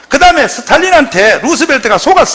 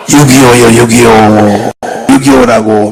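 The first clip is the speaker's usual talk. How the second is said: emphatic answer; 12 semitones lower, 3 dB louder than usual. Acted. Preacher drilling an answer.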